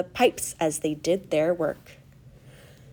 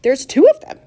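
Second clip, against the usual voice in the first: high, loud exclamation; astonished yell; excited shout; 9 semitones higher, 10 dB louder than usual. A narrator's reading. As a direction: shout out the discovery. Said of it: "everybody started shouting at once".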